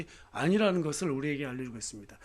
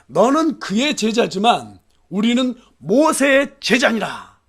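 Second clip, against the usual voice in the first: loud, slow, high-pitched indignation; angry rebuke; 5 semitones higher, 9 dB louder, slower than usual. Acted. Jews reviling the healed man, angry and loud. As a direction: declaim it angrily, weighting each word. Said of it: "막 분노해서 욕을 하면서".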